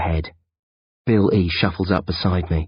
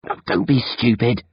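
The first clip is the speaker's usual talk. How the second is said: smiling reassurance; 5 semitones higher than usual. Acted. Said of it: "I smile".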